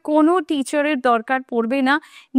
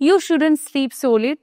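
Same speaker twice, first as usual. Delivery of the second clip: very slow, careful example sentence; 2 semitones higher, much slower than usual. Shown as a demonstration. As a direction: lay each word out for students. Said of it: "example sentence slowly". (ধীরে ধীরে উদাহরণ)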